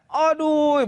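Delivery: high, drawn-out "aduh"; mock a worshipper groaning in pain; imitated pain groan. Old man aching as he prostrates, high exaggerated groan. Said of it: "sakit gamaknya".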